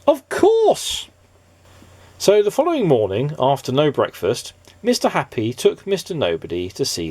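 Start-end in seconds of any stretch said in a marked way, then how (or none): 0.1-1.1 high, louder eureka cry; excited cry. Acted. Mister Happy hitting on the idea, high excited cry. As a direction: burst out with the idea. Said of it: "cried Mister Happy".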